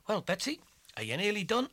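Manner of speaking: high loud call across the yard. Acted. Tom calling Betsy from the field, loud and high.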